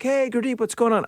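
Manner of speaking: chatty greeting. Retold or imitated. Neighbours greet him in the elevator, chatty greeting. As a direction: imitate a breezy, high-pitched hello.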